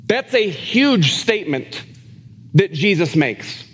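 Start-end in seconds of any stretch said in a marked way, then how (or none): none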